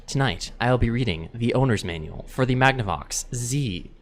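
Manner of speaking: measured, calm newsreader delivery; news anchor voice. Shown as a demonstration. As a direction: read it like an evening anchor. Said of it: "Read something in a news anchor voice".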